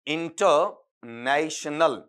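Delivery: इंटरनेशनल very slowly, broken after इंटर; slow pronunciation demo. Shown as a demonstration. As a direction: draw out इंटरनेशनल part by part for learners. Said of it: "मैं बोल जरूर दूंगा".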